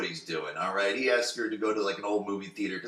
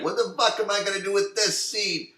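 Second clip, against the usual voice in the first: mock baffled; 10 semitones higher, 4 dB louder than usual. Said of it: "you're like".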